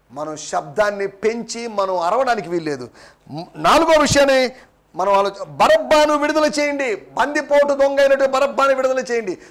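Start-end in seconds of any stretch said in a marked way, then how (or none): 5.4-9.4 raised, higher-pitched demand; half-shouted mob imitation; retold crowd shouting. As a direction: cry out for the release as a crowd would. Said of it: "కేకలు వాళ్ళు వేశారు".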